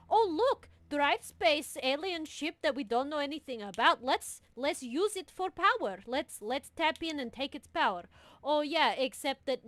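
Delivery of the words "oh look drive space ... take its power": sarcastic high mock voice; scornful imitation; mocking quote. Mocking the aliens' plan.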